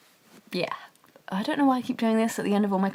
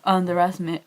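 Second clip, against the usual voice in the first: louder, lightly imitated menace; hammed-up villain line, lightly done; mock ridiculous threat; 6 dB louder than usual. Vlogger mocking how Johnny sounds, lightly hammed-up threat. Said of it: "how ridiculous he sta-, sounds".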